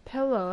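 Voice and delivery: "Pillow" with an eh, as PEL-oh; pellow pronunciation. Shown as a demonstration. Answering a friend's question, "Pillow" as PEL-oh. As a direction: say "Pillow" as PELL-oh. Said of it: "that's how I pronounce it".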